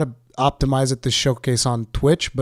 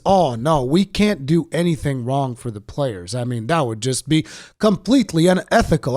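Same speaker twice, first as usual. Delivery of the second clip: mock executive. Mocking executives' fake concern.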